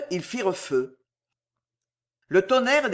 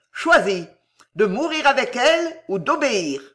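loud, high ringing command; ringing ultimatum; 5 semitones higher, 4 dB louder than usual. A narrator's reading. Fausta gives the executioner his choice, ringing. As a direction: hand down the choice like a sentence. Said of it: "d'une voix éclatante".

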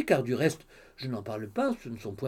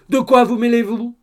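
sharp, louder and higher hush; scolding mother; 8 semitones higher, 11 dB louder than usual. Acted. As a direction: silence the cheeky daughter. Mother silences her daughter. (la mère fait taire sa fille, plus fort et plus aigu)

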